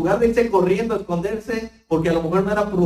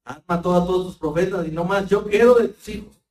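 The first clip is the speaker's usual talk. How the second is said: Elijah's self-pity. Retold or imitated. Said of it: "esta actitud de Elías".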